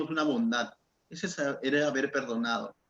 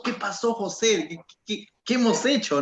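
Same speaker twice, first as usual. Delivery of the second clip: worried onlookers; 4 semitones higher than usual. Retold or imitated. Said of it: "y todos".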